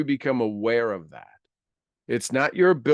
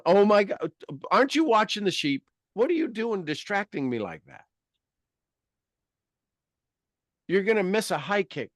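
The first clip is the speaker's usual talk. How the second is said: high-pitched comic fussing; play-acted exasperated telling-off; mock indignant scolding; 8 semitones higher than usual. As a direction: scold yourself in a high, put-on voice. Acts out scolding self-talk.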